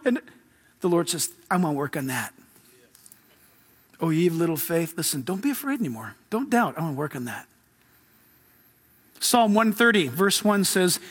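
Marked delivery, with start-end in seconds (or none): 1.5-2.3 low, understated reassurance; reassuring Lord. Acted. The Lord answers Peter's confessed fears, low and reassuring. 4.0-7.5 soft, low, lightly voiced comfort; gently reassuring Jesus. Preacher voices Jesus telling Peter not to doubt, gently reassuring.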